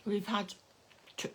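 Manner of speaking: talking around a sweet; sweet in the mouth while talking; mouth full. Real, not acted. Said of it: "I've got a sweet in my mouth".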